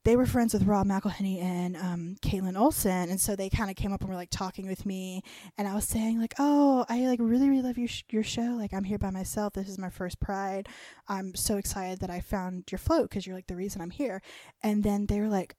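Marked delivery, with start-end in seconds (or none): 6.4-14.2 excited gushing. Retold or imitated. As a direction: gush to the actors like a starstruck fan. Gushing to the actors.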